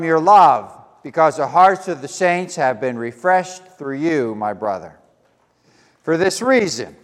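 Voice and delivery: deliberate, projected Bible reading; measured phrases with firm emphasis on key words; scripture reading. Real, not acted. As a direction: read the epistle aloud to a congregation. Reads scripture to congregation.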